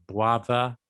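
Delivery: "brother" slowly, with the R turned into a W. Shown as a demonstration. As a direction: round the R in "brother" into a W. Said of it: "the R sometimes becomes a W".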